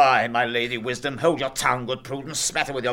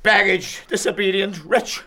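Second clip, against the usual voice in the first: high, loud, raging father; furious tirade; 4 semitones higher, 3 dB louder than usual. Acted. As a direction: shriek it, barely holding back. Father raging at defiant daughter.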